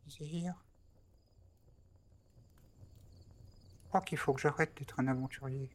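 Trépide's voice. Acted. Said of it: "Je peux pas trop chuchoter en faisant cette voix".

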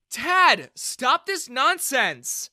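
loud, high, very slow stern order; commanding shout. Acted. Daughter ordering her dad to stop, shouting. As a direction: stop him cold with a shout.

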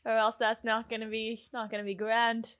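Scottish watch captain giving orders; brief the troops in a Scottish accent. Acted. Watch captain warning recruits not to die, Scottish accent. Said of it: "gotta figure out how to do a Scottish accent again".

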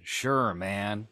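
a hint of mimicked celebrity; Edward Furlong. Shown as a demonstration. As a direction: replay the impression for show, lightly. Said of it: "That was my Edward Furlong impression".

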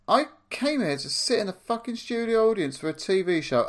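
indignant rant. Pretend. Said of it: "I would be like".

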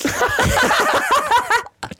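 high-pitched burst of laughter; laughing. Real, not acted. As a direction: crack up helplessly. Cracking up at the story.

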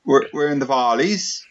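put-on Welsh with a rising end; Welsh accent. Shown as a demonstration. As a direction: have a go at Welsh, tune rising. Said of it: "I can do Welsh perfect".

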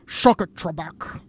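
slow, hammed-up Scottish star; Sean Connery. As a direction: drag it out in a parody Scottish accent. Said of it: "the Will Ferrell Sean Connery".

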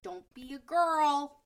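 mock tough guy drawing out each word; hammed-up macho voice. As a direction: drag it out like a mocking bro. Mocking macho advice to boys.

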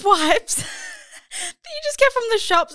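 laughing through the words; giggling while talking, slow. Real, not acted. Laughing while describing wiping floors.

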